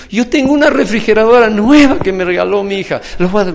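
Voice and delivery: high, loud retold declaration; loud eager offer. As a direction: proclaim it high and loud, imitating an eager donor. Old man eagerly offering his fridge. (imitando una ofrenda entusiasta, voz alta y aguda)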